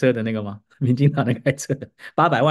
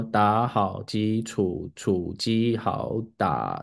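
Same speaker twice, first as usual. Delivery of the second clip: slow reading aloud; 4 semitones lower, 4 dB quieter, much slower than usual. Retold or imitated. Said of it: "这个叫fluency".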